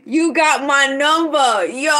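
loud, high cry through laughter; laughing outburst. Real, not acted. Streamer reacting to a chat message, loud amused outburst. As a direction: exclaim it loudly, about to crack up. Cracking up at chat's teasing.

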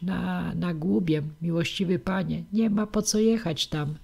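hint of a fretful old wife; old village witch. Old witch Jarucha warns the prince, lightly voiced crone.

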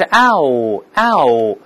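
"嗷" drawn out from open "a" into "o"; wide gliding ow. Shown as a demonstration. Teacher demonstrating the diphthong, drawn-out gliding "嗷". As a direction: stretch "嗷" slowly, mouth spread then closing. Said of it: "嘴要咧开再收回来".

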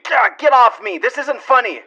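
half-crying, half-shouting protest; tearful shout. Acted. Homeowner pinned by the intruder, tearful shout. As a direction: yell it close to tears, pinned down.

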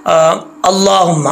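अल्लाहुम्मा with a thick, full ला and a held म; heavy lam. Shown as a demonstration. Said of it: "अल्लाह का ला मोटा पढ़ा जाएगा".

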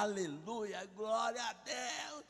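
shouting hallelujah. Retold or imitated. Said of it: "e comecei a gritar".

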